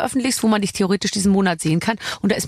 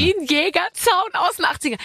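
amused repeat; 8 semitones higher than usual. Pretend. Savoring the phrase, high.

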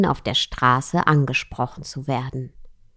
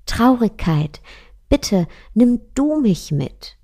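pleading Love; 6 semitones higher than usual. Acted. Liebe bittet Traurigkeit flehend.

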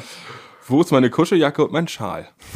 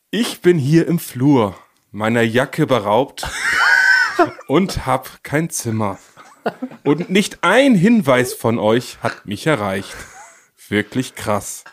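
mock dramatic poet; 3 semitones lower, slower than usual. Reading Benni's angry night message as a furious poet. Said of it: "es wird noch poetischer".

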